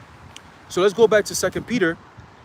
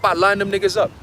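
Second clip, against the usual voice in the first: ordinary talk, nothing marked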